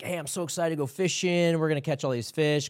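a touch of eager fishing-trip chatter; mild retold excitement. Telling buddies about going fishing, mildly excited.

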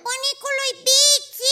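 drawn-out rival call. Acted. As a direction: call him to prove your way. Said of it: "Eu îl strig pe bunicul". (strigare prelungă)

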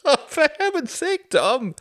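high, loud, laughing exasperation; amused scolding. Acted. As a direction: tease him through the laughter. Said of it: "Klaus laughed".

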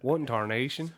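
mock Southern US accent; lightly put-on southern drawl. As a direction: play up a folksy southern twang. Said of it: "do that in southern drawl".

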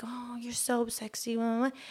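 hushed, airy imitation of a creep; leering catcaller. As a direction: half-whisper a sleazy come-on. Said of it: "He's like".

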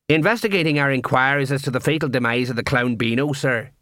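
stiff watchman reciting; lightly voiced dutiful sergeant; official report. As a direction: report it formally to a superior. Colon reports officially to head clown.

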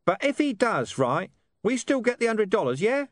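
high-pitched, colloquial talking-dog voice; Gaspode, streetwise and brusque. A narrator's reading. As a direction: rattle it off as a cocky street mutt.

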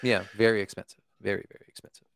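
creaky vocal fry voice. Pretend. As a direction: drag it down into fry. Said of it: "hit the vo-, vocal fry with Mega".

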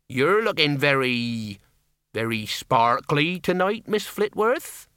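slow, courtly compliment; gallant. Acted. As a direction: flatter her gallantly. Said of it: "he finished gallantly".

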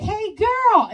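loud, high mimicked holler; imitated kid's accent. Kid with a bike hollers at her, loud mimicked accent. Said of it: "And that's how he talks".

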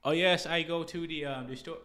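halting, clumsy attempt at a Chinese accent; failed Chinese accent. Host mimicking an adopted guy's speech, bad Chinese accent. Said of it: "I can't do a Chinese".

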